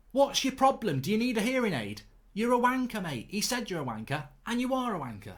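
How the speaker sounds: high, loud mocking shout in his face; yelling insults at a cowardly rival; retold angry taunt. Retold street confrontation, mocking broker.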